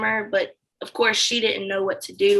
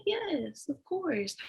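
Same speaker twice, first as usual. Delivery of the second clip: mock breezy yes; 7 semitones higher, 10 dB quieter, much slower than usual. Lying to the new hire.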